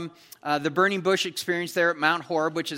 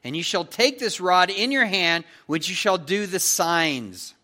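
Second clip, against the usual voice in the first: stern God; 3 semitones higher than usual. Acted. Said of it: "the anger of the Lord was kindled".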